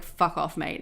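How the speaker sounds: a real brush-off, meant to hurt; hostile "Fuck off, mate". Shown as a demonstration. Showing viewers the rude version, hostile and cold. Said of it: "a really bad thing to say".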